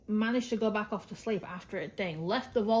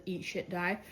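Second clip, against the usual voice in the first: deadpan; 4 dB quieter than usual. Shown as a demonstration. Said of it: "over the top it says".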